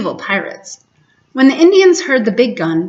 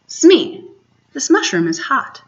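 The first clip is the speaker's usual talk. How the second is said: startled Hook; 5 semitones higher than usual. Acted. Hook, feeling his seat burn, calls Smee in surprise. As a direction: jump up and cry out to Smee.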